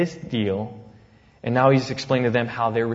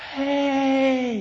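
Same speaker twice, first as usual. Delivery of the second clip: high, bright call of welcome; excited greeting; 13 semitones higher than usual. Retold or imitated. Church welcoming a returning missionary, high excited hey. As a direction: greet an old friend at the door.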